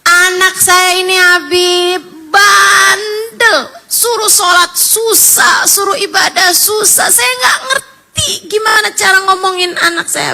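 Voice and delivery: a hint of a tearful widow begging; lightly voiced pleading mother. Widow begging the Habib to pray for her son, mild pleading. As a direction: plead mildly, as the mother retold. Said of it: "Dia nangis sama abah saya".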